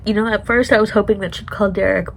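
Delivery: ordinary talk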